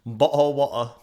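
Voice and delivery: put-on British "bottle water"; exaggerated British accent with dropped t's; mock British accent. Co-host mimicking a British meme, mock British accent. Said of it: "in British accents".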